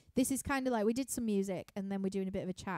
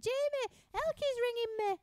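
high, carrying call to another room; retold call across the house; 13 semitones higher than usual. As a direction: shout it up the stairs to Jamie.

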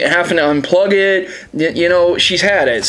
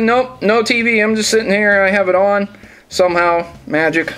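imitating the couch kid; 6 semitones higher than usual. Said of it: "It's like".

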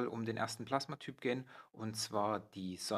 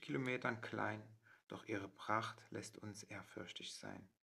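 measured verse reading with pauses between phrases; poem recitation. Acted. Host trying out the sun poem for viewers, poem recitation. Reads the poem version aloud.

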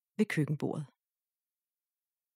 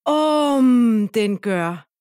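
loud, slow, high joyful squeal; cheering mouse; 3 semitones higher, 11 dB louder, much slower than usual. A narrator's reading. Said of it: "jubler musen".

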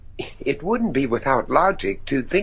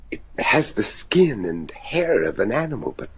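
hushed; 2 semitones lower, 3 dB quieter than usual. Acted. Describing the creature he saw.

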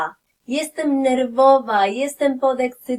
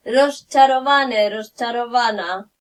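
ordinary delivery

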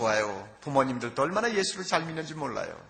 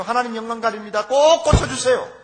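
desperate pleading prayer; 7 semitones higher, 9 dB louder than usual. Retold or imitated. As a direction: beg God out loud, stretching each word. Pastor retells pleading for healing.

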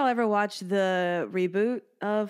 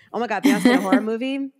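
excited; 3 semitones higher, 6 dB louder, much faster than usual. Real, not acted. Excited about the idea of a singer in a horror movie.

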